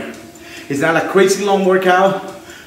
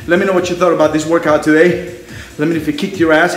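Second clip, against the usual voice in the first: out of breath; 3 semitones lower than usual. Real, not acted. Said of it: "I'm a little bit out of breath".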